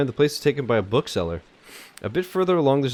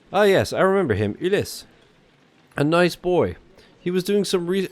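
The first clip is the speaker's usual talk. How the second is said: higher-pitched bookseller character voice; old French bookseller; 6 semitones higher than usual. Acted. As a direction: voice the old Parisian bookseller recalling a customer.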